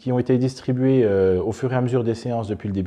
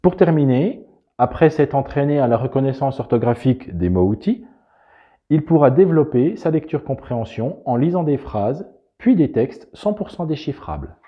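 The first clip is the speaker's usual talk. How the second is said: bright, louder promo narration; polished voiceover read; 4 semitones higher, 5 dB louder than usual. Acted. Narrator presenting the reading method in an advert voiceover read. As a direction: sell the method like an ad.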